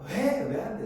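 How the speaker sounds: mock indignant protest, leaping high at first; imitated anger. Son refused a game purchase, mock angry protest. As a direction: imitate a child's sharp, high objection. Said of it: "전에는 막 화를 냈어요".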